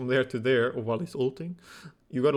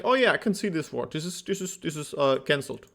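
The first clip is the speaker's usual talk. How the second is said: mock naive player; 3 semitones higher than usual. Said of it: "you're like".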